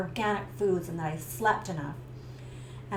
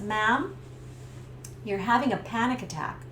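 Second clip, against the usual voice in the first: steady, calm and level; calm paramedic. Retold or imitated. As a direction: reassure her gently.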